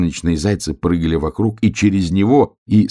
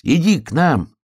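higher inviting hare voice; big sun hare; 9 semitones higher than usual. A narrator's reading. Sun hare invites the hare to dance, high inviting voice. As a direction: beckon him in a light high voice. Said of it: "сказал большой солнечный заяц".

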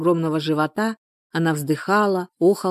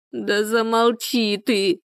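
slowly stretched, restrained cry to shut up; angry cry; 5 semitones higher, much slower than usual. A narrator's reading. Woman in labour to her neighbour, angry cry. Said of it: "закричала Люда".

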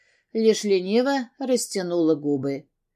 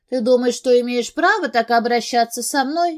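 angry yell; 5 semitones higher, 5 dB louder than usual. A narrator's reading. Drunk girl yelling at boss.

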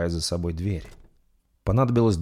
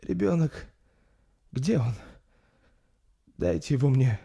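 rasping, higher weak plea; hoarse exhausted mother; 7 semitones higher than usual. Acted. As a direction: wheeze it out after the birth. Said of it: "хрипя произнесла Ингрид".

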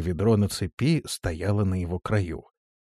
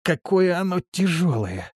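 puffing with effort; 9 semitones higher than usual. A narrator's reading. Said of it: "отдуваясь".

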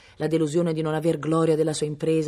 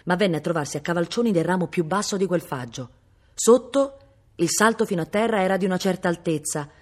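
usual speaking voice

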